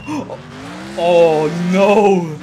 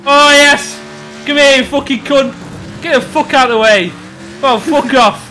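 excited shouting; 6 semitones higher than usual. Real, not acted. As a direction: yell at the screen, fired up. Cheering on racing game.

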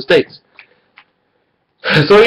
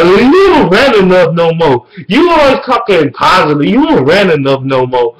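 mocking whiny viewers; 5 semitones higher than usual. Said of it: "y'all crying about me not ranting".

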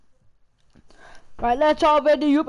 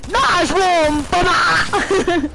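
shouting; 4 semitones higher, 6 dB louder, much slower than usual. Acted. Catchphrase shouted.

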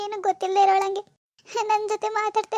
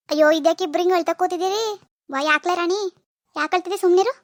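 louder, bustling scolding concern; loud fussing; 2 semitones lower, 4 dB louder than usual. Acted. Mother-in-law finding both women crying, loud fussing. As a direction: barge in and fuss over them loudly.

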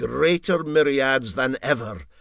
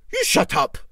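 embarrassed retort; 9 dB louder than usual. Acted. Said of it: "said MacPhail to his commander, blushing".

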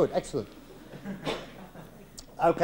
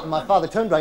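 normal talking voice

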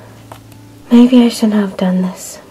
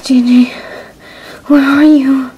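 loud, raised search call; 4 semitones higher, 4 dB louder, slower than usual. Acted. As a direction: call her name across the distance. Searching outside, calling for Jane.

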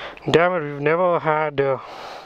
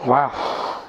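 a touch winded from heat and exertion; slightly puffed, with gaps between phrases; out of breath. Real, not acted. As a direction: talk in short phrases, pausing for breath. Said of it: "I'm really running out of breath".

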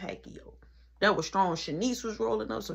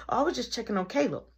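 feigned normal voice; 5 semitones higher, faster than usual. Retold or imitated. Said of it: "I wanna change my voice to make her feel like I'm normal".

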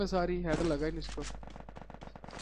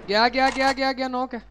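excited callout; 4 semitones higher, 5 dB louder than usual. Real, not acted.

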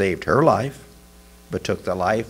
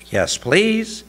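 appreciative; 9 semitones higher than usual. A narrator's reading. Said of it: "with an appreciative smile".

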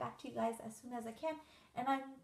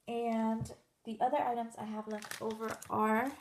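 talking over crinkling plastic packaging; crinkling noise; 4 dB louder than usual. Real, not acted. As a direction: speak while handling a crinkly bag. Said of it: "sorry for the crinkling noise".

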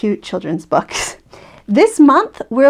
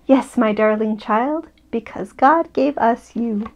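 slow, gentle bedtime voice; tender reassurance. Acted. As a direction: reassure your little one, unhurried. Mother reassures child at bedtime.

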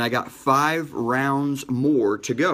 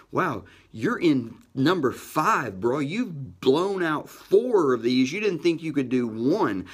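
excited self-talk; 3 semitones higher, slower than usual. Retold or imitated. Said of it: "And I'm starting to get excited".

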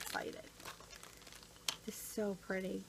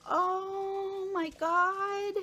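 high, very slow oh my God; delighted gasp; 8 semitones higher, 6 dB louder, much slower than usual. Real, not acted. Unwrapping a friend's gift, drawn-out amazed exclamation. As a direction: stretch it out in delighted surprise. Opening a gift, first reaction.

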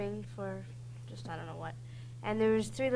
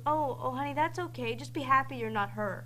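lightly voiced mother, raised pitch settling down; soothing mom; 3 semitones higher than usual. Mom comforting littlest kid, gently imitated reassurance. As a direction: imitate a mom reassuring her child, higher at first. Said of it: "the mom goes".

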